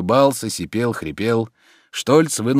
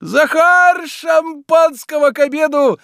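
calling out high and loud to the servant; shouting; 6 dB louder, slower than usual. A narrator's reading. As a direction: yell for Zakhar across the house. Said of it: "закричал он".

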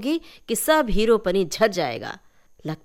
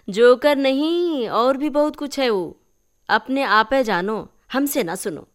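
sharp turn; 4 semitones higher, 4 dB louder than usual. Acted. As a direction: warn her sternly. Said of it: "कन्या चाची का तेवर अचानक बदल गया". (चाची का अचानक बदला, सख़्त तेवर)

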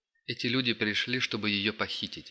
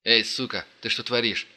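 angry shout; 5 dB louder than usual. Acted. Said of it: "гневный крик".

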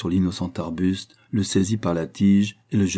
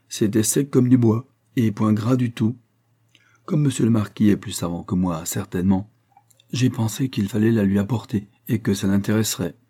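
lightly voiced, deferential country gardener; eager gardener reporting an odd find; humble gardener; 2 semitones higher, 3 dB louder than usual. Gardener shows the marquis a curious find, lightly voiced eagerness.

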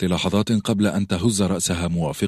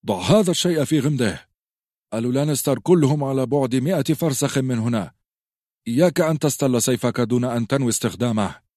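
a lightly voiced stern old knight rebuking, raised higher; harsh scolding; 6 semitones higher than usual. Ser Rodrik rebukes Robb for drawing his sword, mild harsh scolding. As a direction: scold the rash boy sharply. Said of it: "صاح السير رودريك فيه بخشونة".

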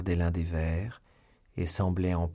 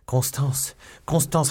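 loud, raised shout of a name; urgent calling; 6 semitones higher, 5 dB louder, slower than usual. A narrator's reading. Young man answering his beloved, urgent shout. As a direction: call out to find her. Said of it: "répondit le jeune homme".

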